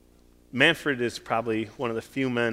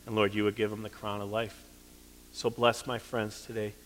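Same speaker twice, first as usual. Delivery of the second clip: closing prayer. Acted. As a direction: pray over the congregation, sincere and hushed. Pastor leads closing prayer.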